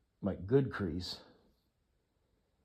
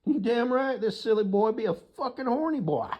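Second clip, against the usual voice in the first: excited; 12 semitones higher, 5 dB louder than usual. Real, not acted. Excited boast about own habit.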